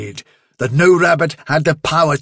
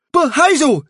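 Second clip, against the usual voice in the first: Blackberry voice; 13 semitones higher, 4 dB louder than usual. Acted. Blackberry protests.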